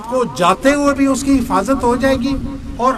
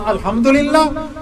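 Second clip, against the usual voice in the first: الحمدللہ said slowly and higher, each syllable drawn out; slow teaching demo; 5 semitones higher, slower than usual. Shown as a demonstration. Preacher drills the reply, slow and raised. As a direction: spell الحمدللہ out slowly, raised, for the listeners to copy. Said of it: "میں کہوں گا".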